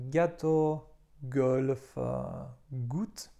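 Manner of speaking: "gâteau", "golf", "goutte" with a hard G; teacher showing G before A, O, U; French pronunciation. Shown as a demonstration. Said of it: "tak jak w słowach".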